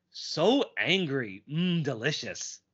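slow, savouring villain purr; drawn out, relishing the anger; Paddywhack voice. Retold or imitated. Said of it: "That's Paddywhack".

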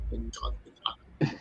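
whispered sigh of relief; relieved whisper. Retold or imitated. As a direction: breathe it out, relieved. Stuntmen relieved, line spared.

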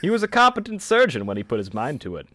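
loud, high vintage narrator voice; hammed-up 1920s radio read; old-timey voice. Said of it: "we want it in the old-timey voice".

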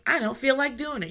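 a hint of a child protesting a chore; balking child. Child refusing a parent's request, mildly whiny protest.

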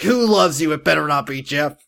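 lightly voiced suspicious teen girl; Grace voice. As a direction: daughter quizzing her mom, lightly voiced. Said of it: "I don't know why I'm doing that voice for Grace".

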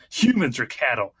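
dramatic movie trailer narration; booming trailer voice-over; announcer voice. Shown as a demonstration. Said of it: "Let me get my announcer voice".

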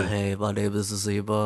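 lightly voiced nasal-free nerd; quiet, put-on nerdy geek. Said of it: "that's my go-to nerd voice".

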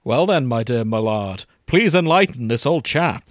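hammed-up English gentleman, lightly concerned; concerned urging. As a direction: coax him in a plummy old-chap voice. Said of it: "he urged with concern".

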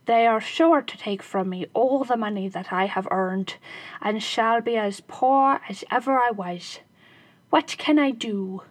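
a lightly voiced anxious little man; hint of a frightened shoemaker; worried shoemaker. Shoemaker fears the robbers.

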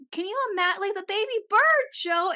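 high-pitched mock wailing plea; retold bawling. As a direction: wail it high, imitating a tearful outburst.

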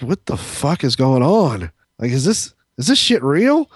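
retold bewilderment; incredulous. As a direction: question reality, pitch climbing at the end. Retells his disbelief at the scene.

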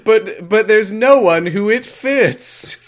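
high, slow, drawn-out silly voice. Acted. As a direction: stretch it out in a squeaky cartoon voice. Comic high slow character voice.

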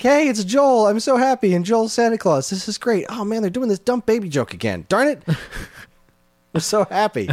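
high, gleeful fangirl squeal; excited. Retold or imitated. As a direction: gush with giddy delight, very high. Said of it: "I was all like".

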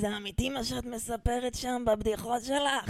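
lightly put-on doubtful voice, slowed down; Gila's voice. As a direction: ask it as suspicious Gila, a bit slow. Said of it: "שהיא מדברת ככה". (גילה שואלת בחשדנות, לאט)

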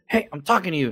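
upset dude. Retold or imitated. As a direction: demand attention like an offended stranger. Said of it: "had a dude one time get upset".

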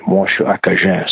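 "Moi, je suis Acadian" in Acadian French. Shown as a demonstration. Singer showing the root of Cajun, in Acadian French. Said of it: "see where the word Cajun comes from".

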